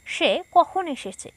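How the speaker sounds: slow question with stress on কখন; asking tone. Shown as a demonstration. Teacher reading the example question slowly to pupils. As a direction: ask it slowly, leaning on কখন. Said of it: "জিজ্ঞাসা করি বা প্রশ্ন করি".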